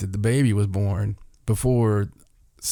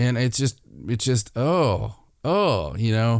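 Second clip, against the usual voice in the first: usual speaking voice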